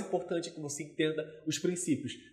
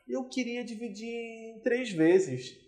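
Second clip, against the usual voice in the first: higher, slow, drawn-out request; tentative haggling customer; 5 semitones higher, 4 dB quieter, much slower than usual. Acted. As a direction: ease the request out slowly, acting a customer. Acted customer haggling over payment. (cliente pechinchando, voz aguda e arrastada)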